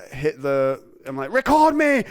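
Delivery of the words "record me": high, loud mock yell; desperate, high-pitched shout; urgent demand. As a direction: cry it out, bursting to start. Acted urgent demand on getting home.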